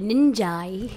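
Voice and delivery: "ninja" ending in a long "eye"; mispronounced ninja. Pretend. Joking about skills to co-hosts, mispronounced ninja. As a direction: say "ninja" as nin-JYE, drawn out. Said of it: "not really how you pronounce it".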